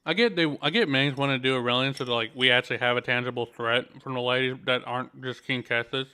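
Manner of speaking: talking while chewing; speaking with a mouth full of food. Real, not acted. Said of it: "Sorry, I'm still eating".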